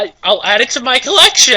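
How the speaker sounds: mock gushing. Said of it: "mimicking Jackal's gushing".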